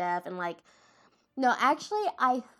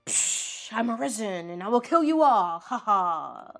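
loud, hammed-up revenge proclamation; theatrical comeback roar, played for fun; risen avenger; 4 dB louder than usual. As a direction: burst out as a mock resurrected hero with a fake laugh. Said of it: "And he's like".

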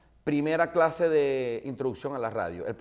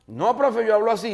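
student's protest; 9 semitones higher, 8 dB louder than usual. Retold or imitated. Student replying to professor.

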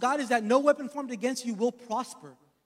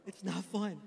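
soft repeat; 3 semitones lower, 7 dB quieter than usual. Real, not acted. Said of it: "repeated softer".

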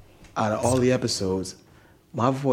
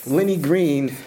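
high, slow mocking friend voice; whisper yelling; 7 semitones higher, slower than usual. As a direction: tease like a friend clowning you. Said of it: "my friends are gonna hear this and be like".

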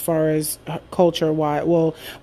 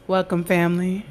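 mock seductive radio voice. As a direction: purr it like a late-night radio host. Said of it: "sexy voice on deck".

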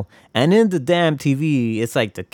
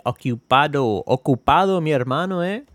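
playful mock Spanish accent, rolling the words; 3 semitones higher than usual. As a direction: toss it off like a buddy in Spanish. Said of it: "I try to say it in every accent I could".

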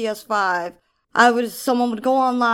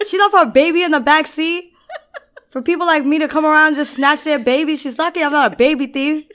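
outraged thief voice; 6 semitones higher, 8 dB louder than usual. Retold or imitated. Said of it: "She's like".

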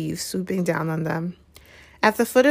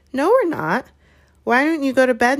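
insistent Hermione; 7 semitones higher, 3 dB louder than usual. Acted. Hermione fending off Neville's suspicion.

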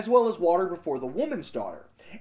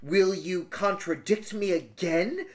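wicked stepmother; slower than usual. Acted. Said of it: "said the stepmother".

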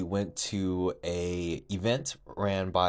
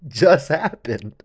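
shocked disbelief; 4 semitones higher, 9 dB louder, much slower than usual. Retold or imitated. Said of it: "She was like".

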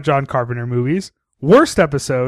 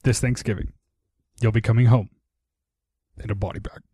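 spooky threat; 7 semitones lower, 4 dB quieter than usual. Retold or imitated. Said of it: "to simply say".

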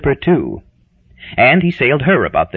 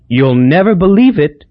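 Hazel's voice; 5 semitones higher, 4 dB louder than usual. Acted. Hazel excited, gossiping.

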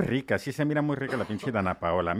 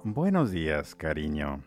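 lower, softer, slowing seductive lover's voice; hammed-up romantic lover; 5 semitones lower, 5 dB quieter than usual. Radio host hamming a lover's morning greeting, low and soft. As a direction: croon it like a cheesy radio romeo. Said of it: "Me transformo".

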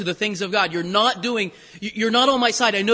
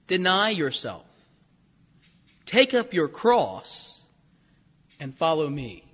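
slow solemn reading; 4 semitones lower, slower than usual. Acted. Solemn repetition of command.

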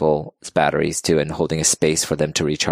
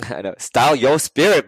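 laughing sheepishly; 7 semitones higher than usual. Real, not acted. Host shyly names her new series, laughing. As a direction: giggle at the name as you say it.

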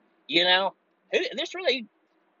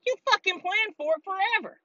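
angry accusation; 9 semitones higher than usual. Real, not acted. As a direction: throw the blame at them hard. Accusing officials.

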